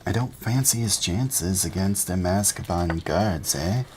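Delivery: lightly voiced gossiping bus conductor; a hint of eager young conductor; Stan's voice. Stan gossiping to Harry on the bus, lightly voiced.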